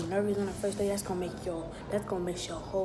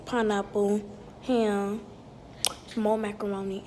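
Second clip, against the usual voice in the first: loud, slow food list; excited listing; 5 dB louder, slower than usual. Real, not acted. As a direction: proudly announce each dish. Showing off her plate.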